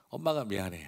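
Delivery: a touch of a soothing mom, 엄마가 미안해 said gently; mild comforting mother voice; tender mother. Retold or imitated. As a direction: gently apologise to a hurt child. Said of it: "너무 마음이 아파하면서".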